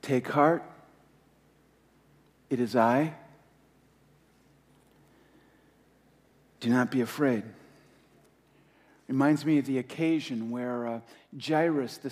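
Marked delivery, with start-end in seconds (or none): 0.0-7.4 slow reassuring quote. Acted. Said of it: "he speaks similarly to us".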